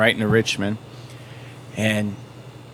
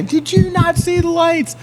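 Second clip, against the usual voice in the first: high, slow barked cop voice, much higher and louder; angry cop yell; 5 dB louder, slower than usual. Retold or imitated. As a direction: play the furious arresting cop screaming down at him. Cop yelling after throwing him down.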